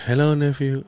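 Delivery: lightly voiced aunt greeting; just a hint of the aunt; imitating aunt. Nephew retelling aunt's greeting, lightly voiced. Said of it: "He's like".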